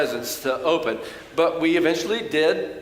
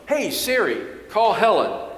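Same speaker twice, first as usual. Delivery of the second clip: commanding a phone; 5 semitones higher than usual. Retold or imitated. Preacher showing the congregation how to talk to Siri, raised command voice. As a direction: call out to the phone like it is half deaf. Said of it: "You can say to your iPhone".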